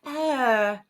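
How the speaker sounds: giggly, drawn-out impersonation; Jennifer Coolidge. Shown as a demonstration. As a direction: drag out the greeting as a hammed-up star. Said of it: "Jennifer Coolidge?".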